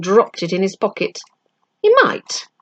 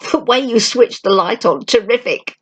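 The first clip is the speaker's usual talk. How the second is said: excited praise; 4 semitones higher than usual. Acted. Boy praising friend excitedly.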